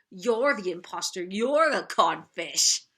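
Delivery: lightly imitated pirate captain accusing someone; Captain Hook. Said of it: "Captain Hook's voice".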